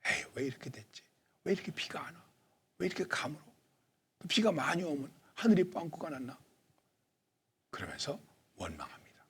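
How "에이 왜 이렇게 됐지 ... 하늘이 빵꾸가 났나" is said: mild acted grumble of complaint; resentful grumbling. Impatient farmer blaming the weather for drought and rain, lightly grumbling. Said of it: "원망하게 됩니다".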